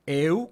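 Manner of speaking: Eu said as in Europa; Greek diphthong eu. Shown as a demonstration. Teacher demonstrating eu to students, clear model. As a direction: voice Eu like the start of Europa. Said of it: "como en Europa".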